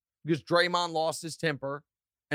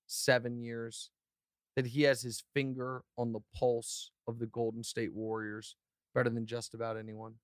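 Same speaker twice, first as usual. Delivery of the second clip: softer, measured courtroom pleading; mock defense lawyer; 4 semitones lower, 5 dB quieter than usual. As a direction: lay out the case to the jury calmly. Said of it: "time to defend him".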